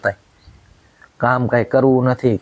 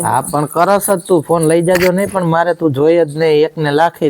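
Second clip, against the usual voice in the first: angry raised voice; 4 semitones higher than usual. Real, not acted. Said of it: "ધીમે બોલો".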